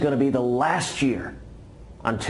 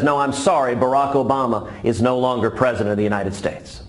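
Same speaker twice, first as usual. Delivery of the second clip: polite Marine; 4 dB louder than usual. Acted. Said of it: "The Marine says".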